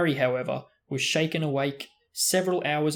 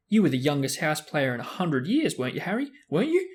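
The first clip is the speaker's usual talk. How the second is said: eager fan; 2 semitones higher than usual. Acted. Colin fawning on Harry.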